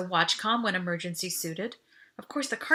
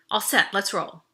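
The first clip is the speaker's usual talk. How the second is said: confident reassurance; 5 dB louder than usual. Acted. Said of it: "I added confidence to my voice".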